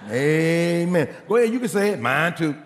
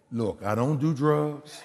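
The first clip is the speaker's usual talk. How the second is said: chuckling through the quote; laughing; 4 semitones lower, 3 dB quieter, slower than usual. Retold or imitated. Preacher retelling the line, laughing. Preacher repeating bag lady joke.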